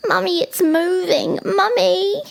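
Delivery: high, loud little giraffe calling out; excited calling. Acted. Young giraffe calling Mummy to look, high, loud and excited.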